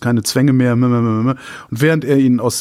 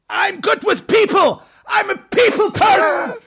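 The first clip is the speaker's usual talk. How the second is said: desperate office worker; slower than usual. Retold or imitated. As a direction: yell it like a cornered employee. Acts film character pleading desperately. (verzweifelt hoch geschrien)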